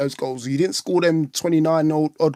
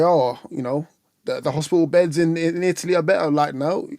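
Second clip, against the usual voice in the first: put-on poor Geordie accent. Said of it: "That was my poor Geordie accent".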